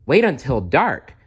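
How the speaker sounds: high eager promise; excited. Acted. Stella Luna to the birds, excited high promise. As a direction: bubble over with anticipation. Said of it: "Stella Luna said excitedly".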